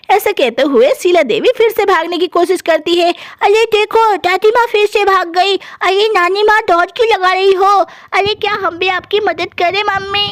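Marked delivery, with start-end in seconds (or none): 3.4-10.3 lightly voiced little kids in a story; playful children. Grandkids asking grandma and mum about the chase, playful children. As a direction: put on an excited child's voice.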